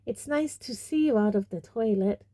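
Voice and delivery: lightly fake-cheery; falsely bright. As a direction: make forced pleasant small talk. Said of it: "in a falsely bright voice".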